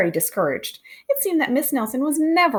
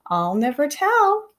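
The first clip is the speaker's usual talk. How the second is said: to herself with a smile; 5 semitones higher, slower than usual. Acted. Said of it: "she said to herself with a smile".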